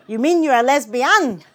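loud question, "lesbian" stressed on its last syllable; three-syllable lesbian. A narrator's reading. Father repeating his astonished question, last-syllable stress on "lesbian". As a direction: say "lesbian" as les-bi-AN, landing on the end. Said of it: "with emphasis on the last".

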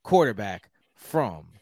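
hammed-up Houston good-ol'-boy accent; lightly put-on Texas twang. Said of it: "This is my Houston accent".

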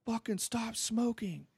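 high, angry neighbour yell, hammed up; retold yell. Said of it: "starts yelling".

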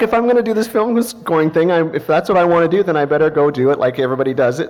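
high, loud, pumped-up self-talk; a burst of eager determination; fired-up resolve. Retold or imitated. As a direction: talk yourself into going all in. Retold own resolve to do it right.

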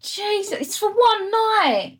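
laughing. Real, not acted. Laughing at friend's reaction.

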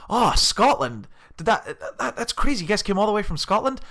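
high, amazed imitation Californian; Californian accent. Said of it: "like, very strong accent".

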